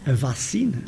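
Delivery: A vacina, with the v said as b, northern style. Shown as a demonstration. Showing students the northern vacina. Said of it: "se fala em Vacina".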